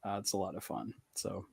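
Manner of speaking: breathy whispered aside; whispering. Real, not acted. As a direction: drop to a whisper. Trails into a whisper.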